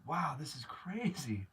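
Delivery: slow, whispered disbelief; awed whisper. Real, not acted. Whispering in awe at a stranger's kindness. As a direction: breathe it out, stunned. Overwhelmed by generosity.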